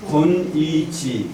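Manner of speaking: measured recitation falling at the end; syllable by syllable. Shown as a demonstration. Teacher finishing the drill of hexagram names, syllable by syllable. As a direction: set each syllable apart. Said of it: "이렇게 있는 거예요".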